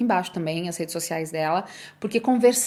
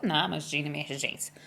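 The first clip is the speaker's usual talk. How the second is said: dismissive mumble; 6 semitones lower, 8 dB quieter than usual. Retold or imitated. Brushing off husband's worry.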